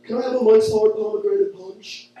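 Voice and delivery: timid customer voice; meek order of a girly drink; mock timid customer. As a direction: order it shyly. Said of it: "one of these guys who's just like".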